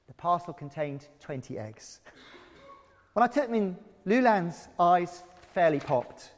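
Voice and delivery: lively read-aloud with voiced figures; story reading. Preacher reading Pauline Hamilton's memoir to the congregation, animated. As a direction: bring the memoir to life.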